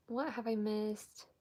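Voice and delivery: talking with a toothbrush in mouth; while brushing teeth. Real, not acted. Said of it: "I'm brushing my teeth".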